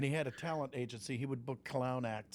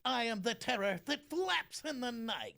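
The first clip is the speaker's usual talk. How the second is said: higher, slow cartoon bear voice; Winnie the Pooh voice; 9 semitones higher, slower than usual. Voice swap game, the line as Winnie the Pooh. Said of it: "Jim will say a line as Winnie the Pooh".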